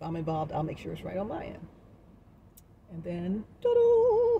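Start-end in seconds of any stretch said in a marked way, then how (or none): 3.6-4.4 high bright ta-da; ta-da reveal. Acted. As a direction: announce it like a magic trick. Grand reveal.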